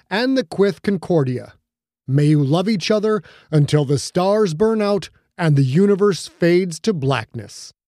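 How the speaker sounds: a hint of a grand old minister; lightly voiced officiant. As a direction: declare it like a solemn minister. George officiating wedding vows.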